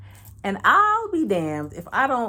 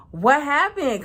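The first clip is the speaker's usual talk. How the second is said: high gasp then an excited question; recognition gasp; 7 semitones higher, 5 dB louder, slower than usual. Retold or imitated. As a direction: gasp high and loud, then ask eagerly. Recognizing old flame.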